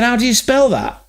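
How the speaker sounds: high-pitched mock Scottish-Irish accent; the speaker's Celtic accent. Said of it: "The Scottish guy".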